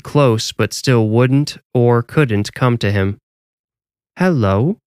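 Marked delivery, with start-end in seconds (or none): 4.2-4.8 small robot voice; speech device voice, mechanical; robotic voice. A narrator's reading. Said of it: "a small robotic voice came".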